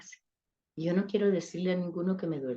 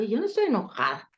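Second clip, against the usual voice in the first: quick, mildly acted denial; lightly played "nothing's wrong"; feigned denial; 3 semitones higher, faster than usual. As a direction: deny being angry a bit too fast. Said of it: "¿Por qué estás enojada?".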